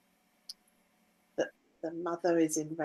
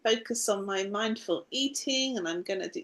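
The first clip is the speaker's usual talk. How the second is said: determined self-talk; 4 semitones higher, 4 dB louder than usual. Retold or imitated. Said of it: "really grumpy day".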